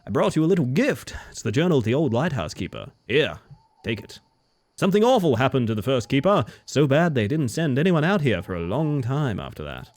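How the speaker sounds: lightly voiced friendly fisherman; a hint of a boastful sea captain.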